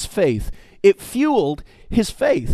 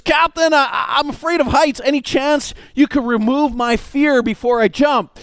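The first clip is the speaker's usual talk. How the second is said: scared passenger; 5 semitones higher than usual. Acted.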